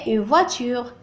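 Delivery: slow "Très bien, une voiture"; careful teacher model; slow model phrase. Shown as a demonstration. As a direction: say it slowly for the class. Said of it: "On a ici une".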